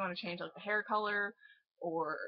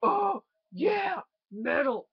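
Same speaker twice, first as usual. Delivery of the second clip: put-on kid's excitement; 6 semitones higher, 7 dB louder, slower than usual. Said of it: "I was like".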